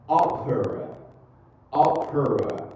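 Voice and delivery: "Opera" with a forceful, popped P; stressed P. Shown as a demonstration. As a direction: punch the P in "Opera" loudly.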